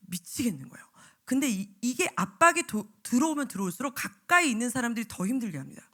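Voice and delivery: usual speaking voice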